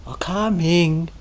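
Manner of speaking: slow, put-upon coming; grudging reply. Shown as a demonstration. Teacher mimicking the attendant's coming, slow and grudging. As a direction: drag the word out like a reluctant servant. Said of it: "it's a row already in that coming".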